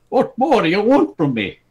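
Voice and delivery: put-on fed-up old king; exasperated king. A narrator's reading. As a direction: throw it out in frustration. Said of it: "he asked".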